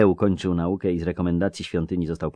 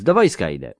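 a lightly voiced earnest youth; curious young clerk; young scribe voice; 3 semitones higher, 8 dB louder than usual. Jare answers.

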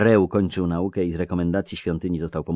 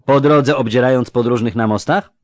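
a lightly voiced earnest youth; curious young clerk; young scribe voice; 7 semitones higher, 11 dB louder than usual. Jare retorts boldly.

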